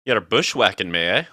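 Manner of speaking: playful mock Scottish accent. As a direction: put on a lilting Scottish accent for fun. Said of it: "I have a Scottish accent".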